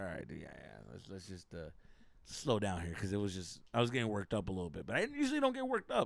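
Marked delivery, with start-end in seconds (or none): 0.0-2.9 calming down. Retold or imitated. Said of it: "I started pulling it back".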